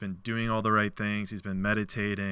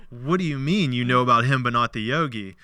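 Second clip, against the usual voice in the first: baffled; 3 semitones higher, 6 dB louder than usual. Retold or imitated. Avatar questions God in open disbelief. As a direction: push back in disbelief.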